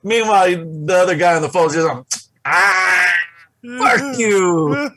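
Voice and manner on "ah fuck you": higher, mock irritated retort; a touch of the pranked guy's annoyance; mock annoyed coworker. Fooled coworker answers the prank.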